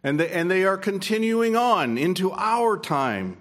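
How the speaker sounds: fervent pulpit delivery; preaching. Acted. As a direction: proclaim it to the congregation. Preaching to the congregation.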